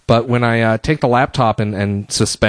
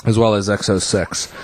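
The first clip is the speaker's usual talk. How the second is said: short of breath, tired talking; winded after a long break; 3 semitones lower than usual. Real, not acted. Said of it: "I'm pretty much out of breath right now".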